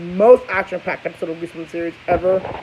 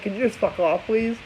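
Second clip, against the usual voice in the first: softer, sweetened brush-off; polite but dismissive hush; mock polite; 8 dB quieter than usual. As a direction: say it nicely, softly. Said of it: "In a nice way of saying it".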